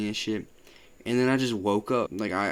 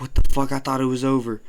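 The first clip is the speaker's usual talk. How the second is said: shocked shout; 3 semitones higher, 7 dB louder, faster than usual. Retold or imitated. Retelling shock, loud.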